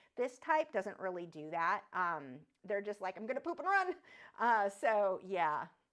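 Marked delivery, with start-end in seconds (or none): 3.2-4.0 little, pitched-up tarantula character voice. Acting out a frightened tarantula: tarantula impersonation. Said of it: "that was my tarantula impersonation".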